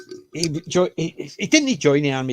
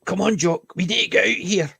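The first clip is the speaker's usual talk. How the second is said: Englishman urging; 4 semitones higher than usual. Retold or imitated. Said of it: "he's going".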